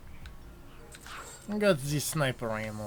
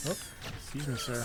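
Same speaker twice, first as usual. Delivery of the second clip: put-on Russian accent; 8 dB quieter, faster than usual. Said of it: "my terrible Russian accent".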